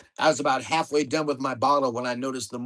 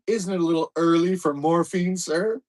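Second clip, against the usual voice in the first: put-on butler-like British accent, louder; stuffy British accent; 4 semitones higher, 4 dB louder than usual. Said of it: "in my best stuffy British accent".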